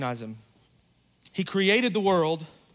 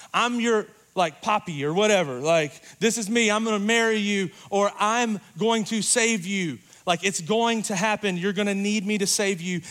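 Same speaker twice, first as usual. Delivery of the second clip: casual rescuer; 4 semitones higher than usual. Retold or imitated. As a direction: announce yourself breezily. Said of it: "and they say".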